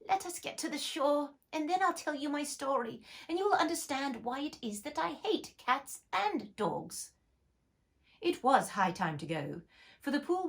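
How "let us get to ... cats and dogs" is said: low trembling voice. Acted. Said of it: "in a low, trembling voice".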